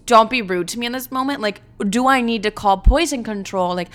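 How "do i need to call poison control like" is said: normal talking voice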